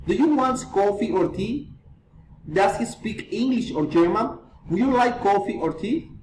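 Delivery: first choice up, last choice down; rising then falling intonation. Shown as a demonstration. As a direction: lift "coffee" and "English", drop "tea" and "German". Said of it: "reason, and filing intonation".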